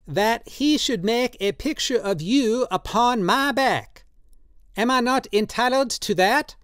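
put-on high, slow, pleading old man's voice; old tattooist Drioli, drunk and pleading. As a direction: coax him tenderly, in wine.

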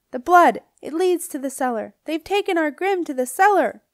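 high, loud witch shriek. A narrator's reading. Dorinda alerting the coven, a shrieking witch. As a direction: screech the alarm to the coven. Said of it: "This was from Dorinda".

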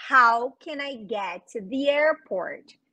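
same question again but slow and careful; slow it down for the class to copy. Shown as a demonstration. Teacher repeats slowly for students. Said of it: "eu posso perguntar".

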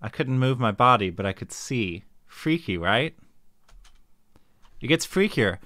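eerie campfire story voice; spooky storyteller. Pretend. Voices character telling spooky dream.

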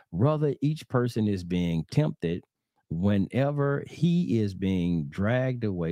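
slow, deliberate Bible reading; scripture reading. Acted. Preacher reading James to brothers and sisters, slow measured reading. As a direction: read the verse out slowly, word by word.

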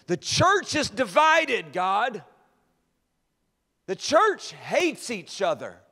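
loud, high, drawn-out cry; accuser crying out. Acted. The accuser testifying to God against the church, crying out. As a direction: cry each charge out slowly at high pitch. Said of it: "his voice cried out".

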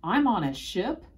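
loud, high, incredulous question; astonished boy, voice jumping up; startled exclamation. A narrator's reading. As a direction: burst out in disbelief. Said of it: "I exclaimed as I reeled backward".

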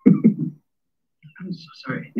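strained apology through a blocked throat; choked, voiceless words, then clearing the throat; throat catching. Real, not acted. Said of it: "I just had something in my throat".

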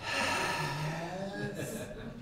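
long, tired sigh before speaking; weary sigh. Acted. Pastor voicing Jesus to Philip, weary sigh. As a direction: let out a heavy disappointed sigh. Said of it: "can you hear Jesus going".

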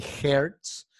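"hertz" with a Spanish E; wrong E vowel. Shown as a demonstration. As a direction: say "hertz" with an eh sound as the mistake. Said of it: "No es ni A, ni E, ni O".

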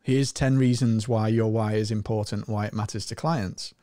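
even, matter-of-fact read-out; very logical, unexcited delivery. Acted. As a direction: read it as a dry logical list, sinking at the end. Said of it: "very matter of fact, very logical".

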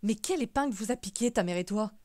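loud, appalled outburst; aghast old uncle exclaiming; aghast exclamation. A narrator's reading. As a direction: burst out at them in alarm. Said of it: "s'exclama le grand-oncle, effaré".

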